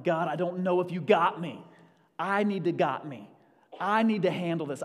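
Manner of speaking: panicked self. Retold or imitated. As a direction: act out the frightened believer. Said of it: "I'm like".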